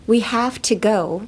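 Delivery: "We have to go" slowly, each word stressed; emphatic enunciation. Shown as a demonstration. Voice actor recording a battle game, "We have to go" slowly emphasised. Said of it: "だいぶ強調して言うことが多くて".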